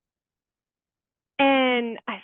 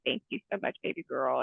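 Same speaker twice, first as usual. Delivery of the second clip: low, soft murmur to a beloved animal; retold thank-you, hushed and affectionate; tender thanks; 8 semitones lower, 6 dB quieter, faster than usual. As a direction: drop low and quiet, thanking her fondly. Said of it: "turned around and thanked her".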